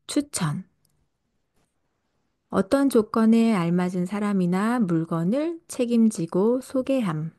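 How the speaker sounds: ordinary talk, nothing marked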